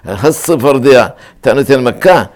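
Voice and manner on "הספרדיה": הספרדיה slowly, s doubled and held; הספרדיה with emphatic geminated s; with dagesh. Shown as a demonstration. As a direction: lengthen the s of הספרדיה. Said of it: "הדגש מכפיל את האות".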